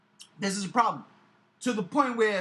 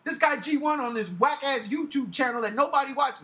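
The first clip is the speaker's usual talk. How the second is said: mock urgent message, pitched up a bit; imagined phone pitch; 4 semitones higher, 3 dB louder than usual. Asking someone to phone the boss, loud comic urgency. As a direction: call out the name loudly. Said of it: "be like, "Yo, Bob".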